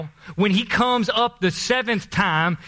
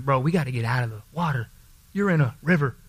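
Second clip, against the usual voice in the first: servants scolding; 6 semitones lower, faster than usual. Acted. Servants calling Naaman to leave.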